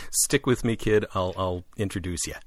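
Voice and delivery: put-on brash New York accent. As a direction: say it like a New Yorker. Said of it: "this is my New York voice".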